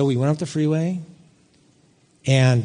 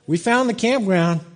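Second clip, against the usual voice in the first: higher-pitched, pleased announcement; retold triumph; 5 semitones higher than usual. Dad spotting the campground sign after praying, retold triumph. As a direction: announce the find with mild triumph. Retold find, then humbled repeat.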